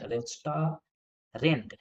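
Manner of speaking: "रेस्टोरेंट" drawn out very slowly, each syllable separate; slowly sounded out. Shown as a demonstration. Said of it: "रेंट होगा ना".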